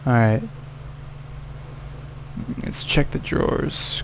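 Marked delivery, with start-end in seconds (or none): 2.6-4.0 breathy whisper while sneaking; hushed whisper. Real, not acted. Whispering to himself while sneaking through the house.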